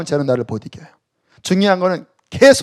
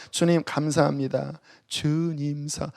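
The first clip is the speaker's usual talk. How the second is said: hushed, softer prayer; 4 semitones lower, 10 dB quieter, slower than usual. Shown as a demonstration. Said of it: "크게 안 해도 돼요". (조용히 속삭이듯)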